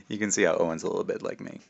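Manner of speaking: put-on lively read-aloud narration for kids; story reading. A narrator's reading. Author reading his book aloud to schoolkids. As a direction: tell it like a storyteller to a class.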